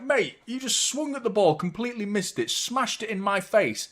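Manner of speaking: imitating a furious teammate shouting back; retold angry rant. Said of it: "starts screaming at him".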